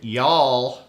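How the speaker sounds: drawn-out Southern y'all; a touch of playful Southern accent. Pretend. Host throwing a word at listeners, in a Southern accent. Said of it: "that's my best Southern accent".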